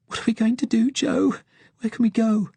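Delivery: high, tearful pleading; desperate questions near tears; frightened pleading. Acted. Crying girl pleads.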